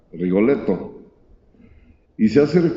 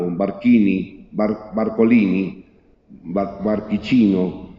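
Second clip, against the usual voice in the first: fumbling fake Italian; slower than usual. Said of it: "no sabía ni cómo se decía".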